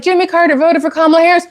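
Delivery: mocking them. Vlogger mimicking people who say Carter voted, in a high mocking voice. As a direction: parrot their claim with scorn. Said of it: "And they're like".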